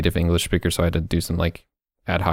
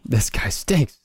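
Pat McAfee meme; 4 semitones higher, slower than usual. Retold or imitated. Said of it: "It's a Pat McAfee meme".

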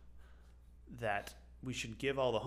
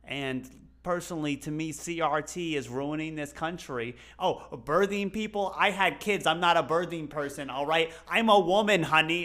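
put-on indignant Bronx accent, growing louder and higher; Michelle Fiore; 3 semitones higher, 8 dB louder than usual. Candidate ranting at a debate, mock Bronx accent. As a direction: build a Bronx-accented tirade to a loud, punched finish. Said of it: "Do it in the accent again?".

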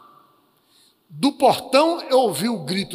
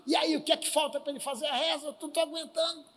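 gruff; 6 semitones higher, 5 dB quieter than usual. Retold or imitated. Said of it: "Ele grosseirão olhou".

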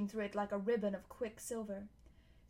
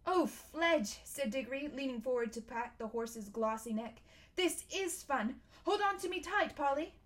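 put-on thrilled boy; 3 semitones higher than usual. Diggory on the horse's back, lightly voiced boyish thrill. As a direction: bubble over with excitement.

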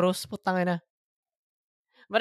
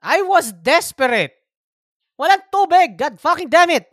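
stifled giggles; 8 semitones higher, 4 dB louder than usual. Real, not acted. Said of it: "you're trying not to laugh".

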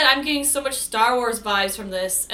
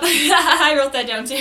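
laughing; 4 semitones higher, 5 dB louder than usual. Real, not acted. Laughing at the movie quote.

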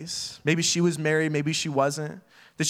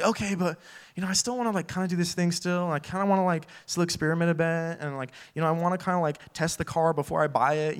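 mock whiny bargaining; 2 semitones higher than usual.

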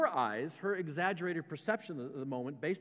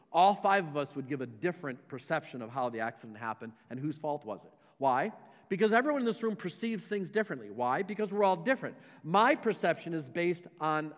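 raised, emphatic sermon voice, louder; preaching; 4 dB louder than usual. Acted. Pastor preaching to his church about perception, emphatic. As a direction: drive each point home to the room.

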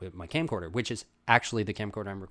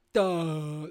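dopey, higher dumb-brute voice; dim-witted ostrich; 7 semitones higher, 5 dB louder than usual. Acted. Ostrich voiced as a dumb henchman, dopey mock voice. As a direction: play it slow-witted and loud. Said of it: "They're like".

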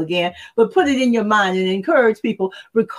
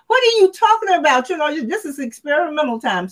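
incredulous; 6 semitones higher than usual. Real, not acted. Reacting to young folks' excuse.

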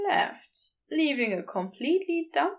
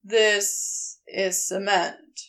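blank, deadpan Crowley; 4 semitones lower, slower than usual. Acted. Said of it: "the blankest stare".

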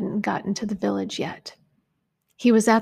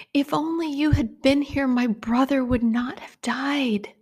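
higher, pleading lament with breaking whispers; grieving cry; 5 semitones higher than usual. Retold or imitated. The preacher voices Mary mourning her brother to Jesus, aching lament. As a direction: let the grief ache through each word.

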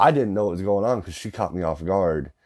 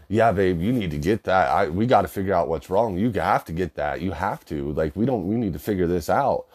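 pushing hard; 2 semitones higher than usual. Retold or imitated. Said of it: "Just pushing it hard".

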